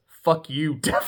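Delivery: laughing through a shouted quote; shouted insult broken by laughter. Real, not acted. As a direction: blurt it out while cracking up. Quoting the rude text, laughing.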